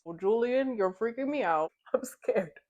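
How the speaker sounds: alarmed, voice lifting at the start; acted-out rising panic; freaked out. Character frightened by cryptic warning.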